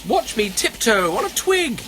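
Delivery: high little squirrel voice; eager squirrel. Acted. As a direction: show off in a high voice. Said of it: "said the squirrel".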